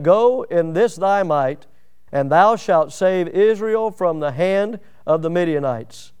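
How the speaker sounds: slow, weighty words of God; God sending Gideon, slow and solemn; slow solemn command. Acted. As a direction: give the command slowly. God's command read slowly.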